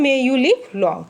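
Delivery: slow, drawn-out blessing; slow example blessing; slow read-aloud. Shown as a demonstration. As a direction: say the blessing slowly. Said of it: "जैसे कहते हैं ना".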